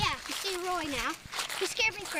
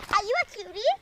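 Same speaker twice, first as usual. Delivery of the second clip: talking to a dog; 4 semitones higher, much faster than usual. Real, not acted. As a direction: coo at the dog. Cooing at the dog.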